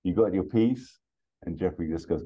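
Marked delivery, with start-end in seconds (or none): 0.0-1.0 slow sighing opening, rising into the question; acted weary exasperation; exasperated sigh. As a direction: sigh out the name, then ask higher. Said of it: "Axel sighs and then just says".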